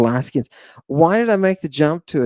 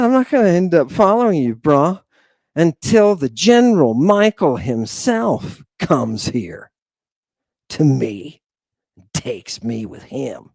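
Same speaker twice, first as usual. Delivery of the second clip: cocky defiance; 3 semitones higher than usual. Retold or imitated. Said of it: "His expression gets all angry".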